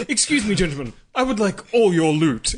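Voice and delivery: posh, polite pirate voice; a refined pirate asking nicely; gentleman pirate. Pretend. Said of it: "That's a gentleman pirate".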